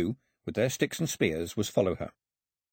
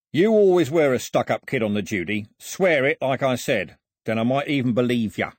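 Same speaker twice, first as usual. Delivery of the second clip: bullying crook; 3 semitones higher, 6 dB louder than usual. Acted. Voices Foxlip bullying the girl.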